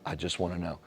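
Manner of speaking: reassuring a partner that you want to hear; gentle caring ask. Acted. Asking partner with love.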